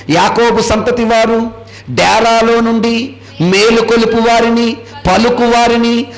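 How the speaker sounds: slow, measured reading of the verse; scripture reading. Acted. Pastor reading the verse to the congregation, slow and solemn. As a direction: read it out slowly like holy writ.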